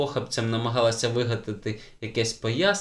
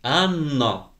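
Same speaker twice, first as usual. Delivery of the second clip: slow, louder stern name; 3 semitones higher, 4 dB louder than usual. A narrator's reading. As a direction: bite the name out. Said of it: "повільно й голосно цідячи слова". (суворо, повільно й голосно)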